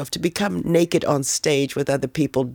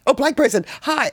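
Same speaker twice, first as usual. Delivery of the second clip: higher, eager friendly call; excited greeting; 9 semitones higher than usual. Retold or imitated. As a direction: greet a stranger with delight. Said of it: "I get really excited".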